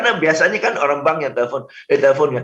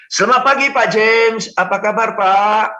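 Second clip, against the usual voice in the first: higher, louder, lively friendly hello; friendly greeting; 5 semitones higher, 3 dB louder than usual. Shown as a demonstration. Caller greeting Pak James like a friend, bright and lively. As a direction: greet him like an old friend. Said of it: "Anda bisa bilang".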